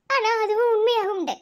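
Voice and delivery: crying as she admits it; tearful. Acted. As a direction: voice catching with tears. Heartbroken bride confronting lover. (அழுகையுடன் உடைந்த குரல்)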